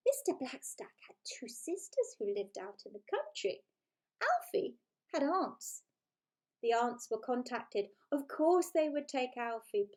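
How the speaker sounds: lively, playful storybook reading; story narration. A narrator's reading. Author reading her book to listeners, playful storytelling. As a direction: read it like a bedtime story with relish.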